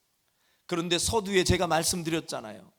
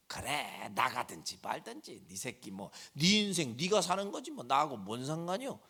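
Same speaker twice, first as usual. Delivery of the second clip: softer, couldn't-care-less shrug; indifferent parent; 2 semitones lower, 6 dB quieter than usual. Retold or imitated. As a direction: say it like you've given up. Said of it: "이러면서 부모가 눈 찔끔 감고".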